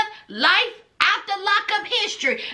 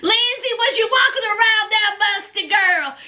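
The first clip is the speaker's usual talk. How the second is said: mocking girlfriend; 4 semitones higher than usual. Mocking Lindsay in her voice.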